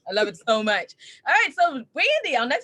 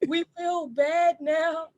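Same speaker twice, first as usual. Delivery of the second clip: mock guilty; 5 semitones higher, much slower than usual. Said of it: "we're like".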